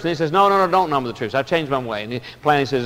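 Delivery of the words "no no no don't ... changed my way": frantic backpedal. Retold or imitated. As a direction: rush the take-back in a panic. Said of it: "He's just frantic and frenetic".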